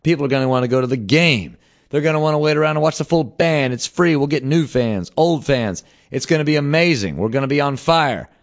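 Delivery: retelling his own eager pitch; hyped self-quote. Retold or imitated. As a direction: pitch it like a can't-miss idea. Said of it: "I'm like".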